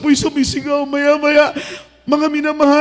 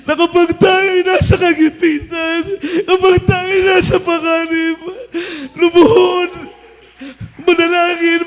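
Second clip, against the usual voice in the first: preaching; 2 semitones higher than usual. Real, not acted. Pastor's teaching, rising to preaching.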